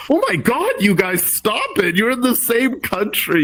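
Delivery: retold exasperated plea, pitched high; mock-scold a bickering group, voice jumping up.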